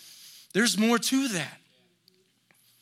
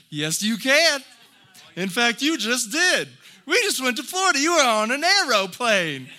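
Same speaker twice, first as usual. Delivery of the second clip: peppy dad; 5 semitones higher, 6 dB louder than usual. Retold or imitated. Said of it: "Dad comes back".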